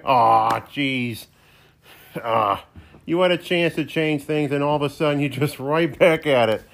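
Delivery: a wisecracking co-host who turns briefly sincere, voiced by the same person; sidekick voice.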